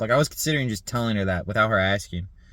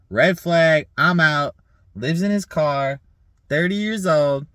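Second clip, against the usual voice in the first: mock sassy rejection, higher and louder; sassy woman; 5 semitones higher, 6 dB louder, slower than usual. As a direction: imitate a sassy woman dismissing a bad date. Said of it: "That's, like, a sassy black woman".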